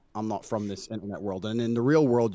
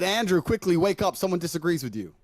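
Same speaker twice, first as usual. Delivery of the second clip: raised pitch, urgent mock alarm; 5 semitones higher than usual. Retelling Aiden's message in a mocking urgent voice. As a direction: squeak out the warning. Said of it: "Aiden messaged me and said".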